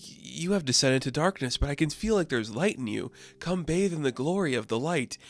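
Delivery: a lightly put-on mystic voice, soft; echoing god voice. A voice from a box calls Marlene, in a soft mystic tone. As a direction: beckon gently like an unseen deity. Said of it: "a voice echoes".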